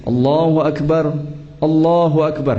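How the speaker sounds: "Allahu Akbar" said quickly as separate stops; wrong takbir. Shown as a demonstration. Teacher showing students the wrong takbir, quick and separated. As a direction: show the common wrong reading. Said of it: "Bukan begini".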